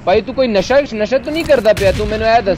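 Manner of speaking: mock accusing. Teasing friend about drugs.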